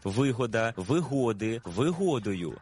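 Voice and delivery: вигода, вигоди, вигодою, each stressed on ГО; measured list of forms, ГО stressed in вигода, вигоди, вигодою; stress kept on second syllable. Shown as a demonstration. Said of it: "наголос зберігається у тому самому складі".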